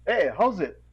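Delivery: a breezy islander hello; test pigeon greeting. Retold or imitated. Testing a stranger behind the counter with a local greeting. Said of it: "throw out what is called a test pigeon".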